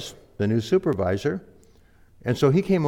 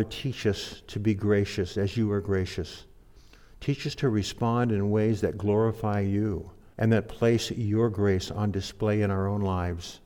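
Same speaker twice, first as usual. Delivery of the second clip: closing prayer. Real, not acted. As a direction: pray humbly over the congregation.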